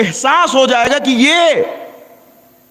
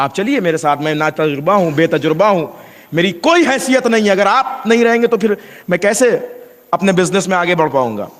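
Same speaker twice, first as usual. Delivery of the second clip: humble plea; 3 semitones lower than usual. Retold or imitated. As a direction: plead gently with his father. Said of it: "اس لہجے میں اور اس لہجے میں کتنا فرق ہے". (نرم اور عاجزانہ التجا)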